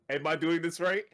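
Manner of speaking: high, loud faux-naive question; trolling the raid leader with fake innocence; mock innocent question. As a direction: play dumb on purpose.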